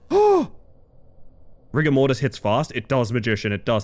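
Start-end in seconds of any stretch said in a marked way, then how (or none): 0.1-0.5 a very high, loud yelp of surprise; startled cry. Real, not acted. Player startled by the game, high surprised yelp. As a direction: jump at it.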